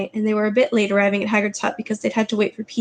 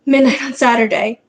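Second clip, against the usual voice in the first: hoarse; 5 dB louder than usual. Acted. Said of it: "he said in a hoarse voice".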